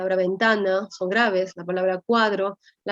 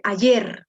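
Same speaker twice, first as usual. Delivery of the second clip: "ayer" with weight on the final yer; stress on final syllable; 3 dB louder than usual. Shown as a demonstration. Teacher illustrating voice force, "ayer" stressed on its last syllable. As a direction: lean firmly on the yer of "ayer". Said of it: "Esas palabritas que tienen fuerza de voz".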